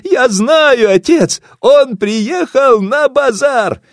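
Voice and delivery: high, loud gleeful cry; joyful shout. Acted. Daughter joyfully shouts her guess to her father. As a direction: shout it out in delight. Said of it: "радостно закричала дочь Васо".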